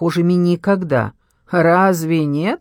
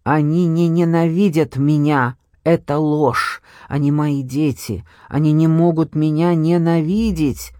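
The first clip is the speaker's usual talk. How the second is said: ordinary delivery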